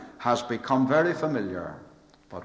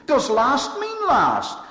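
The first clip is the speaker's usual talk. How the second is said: rhetorical question; 12 semitones higher, 3 dB louder, slower than usual. Acted. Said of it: "repeated rhetorical refrain".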